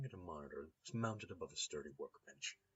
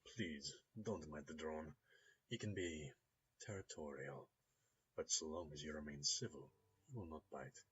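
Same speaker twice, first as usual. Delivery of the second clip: put-on apologetic Russian-accented gentleman. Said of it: "his tone goes apologetic".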